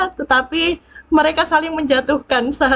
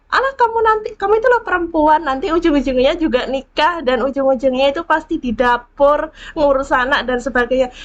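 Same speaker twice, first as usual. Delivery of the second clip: dismissive mocking; 2 semitones higher than usual. Mocking dismissive gossip quoted.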